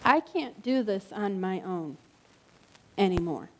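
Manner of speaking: low and soft, sinking at the end; soft, low admission. Retold or imitated. Preacher voicing a struggling friend, low and soft. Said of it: "It might sound like".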